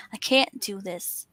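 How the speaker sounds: slow, low, mildly defeated; negative self-talk. Retold or imitated. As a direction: lightly voice a self-doubting thought, drawn out. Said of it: "Instead of saying can't".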